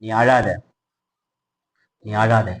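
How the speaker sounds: low, tender reassurance; gentle consoling. Acted. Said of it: "கர்த்தர் சொல்ற".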